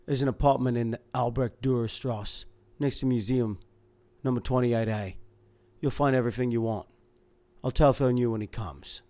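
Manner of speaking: flat, stonewalling reply. Acted. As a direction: deliver it flat, shutting her out. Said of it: "His voice sounded flat".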